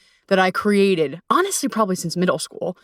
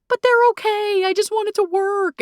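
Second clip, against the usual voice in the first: much higher, pleading little voice; mock plea; 13 semitones higher than usual. Her past self clinging to a bad match, in a high pleading voice. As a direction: beg like someone desperate for it to work.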